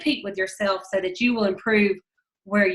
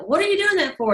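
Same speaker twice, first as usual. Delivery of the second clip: retold outraged question; 8 semitones higher, 4 dB louder, faster than usual. Man held underwater protests.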